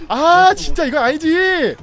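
high pitched, exasperated wail; exasperated outcry. Real, not acted. Streamer protesting the play, high and exasperated. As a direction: whine loudly that this is wrong.

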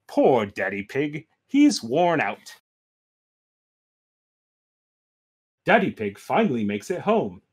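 low, measured storybook read; story narration. A narrator's reading. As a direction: let the voice sink as the journey drags. Reads Peppa story aloud.

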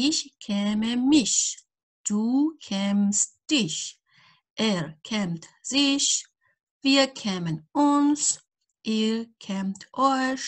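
each pronoun and verb spaced out slowly; slow conjugation drill. Acted. Teacher drilling a verb table for students, slowly. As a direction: chant the table slowly for learners.

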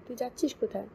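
a brother snapping where she is going; stern where-are-you-going demand; sharp demanding question. Acted. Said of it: "Rana নরম গলায় বলল".

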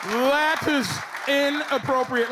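lightly voiced scolding woman; mildly hammed-up female disapproval; mock disapproving woman. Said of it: "Like, women say that".

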